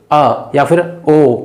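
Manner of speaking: "अ" and "ओ" voiced from the throat, drawn out slowly; throat vowels. Shown as a demonstration. Teacher shows students how sound comes from the throat, slow throat vowels "अ", "ओ". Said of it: "जब कंठ से आवाज निकलती है".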